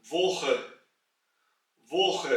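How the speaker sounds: वोख with a throaty kh ending; German word demo. Shown as a demonstration. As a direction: end वोख with kh. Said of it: "इसलिए हम इसको कहेंगे". (वोख, गले वाला ख)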